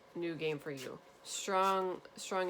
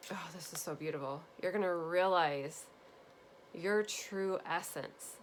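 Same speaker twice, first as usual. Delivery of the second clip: getting emotional. Real, not acted. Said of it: "this is making me emotional".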